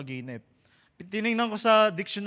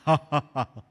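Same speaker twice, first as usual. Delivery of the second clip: demonic laugh; 3 semitones lower, 6 dB louder than usual. Acted. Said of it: "tatawa siya parang demonyo".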